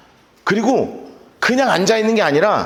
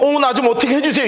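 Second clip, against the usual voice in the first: mildly higher-pitched mock plea; 쫄아서; 5 semitones higher, faster than usual. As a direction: beg for help, a touch cowed. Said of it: "그냥 쫄아가지고". (살짝 쫄아서 애원하는 말투)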